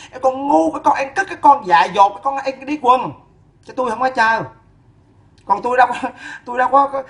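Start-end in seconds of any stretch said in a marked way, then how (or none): 0.1-3.1 spits out the insults one by one; a scornful list of slurs; mocking string of insults; scornful name-calling. Real, not acted.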